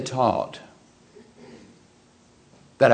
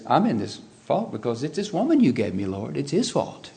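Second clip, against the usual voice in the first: Adam whining excuse; 4 dB quieter than usual. Retold or imitated. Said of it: "Now he says".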